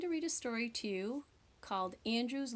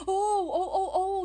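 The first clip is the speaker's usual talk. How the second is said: higher, louder laughing oh; father's laughing oh; 7 semitones higher, 6 dB louder than usual. Acted. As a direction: chuckle at the loose tooth. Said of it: "he said".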